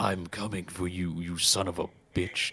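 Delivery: growling, wrathful bear voice. Pitching a game where Smokey Bear hunts a fire-setting player; growly Smokey Bear voice. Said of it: "you hear the gr- growly voice say".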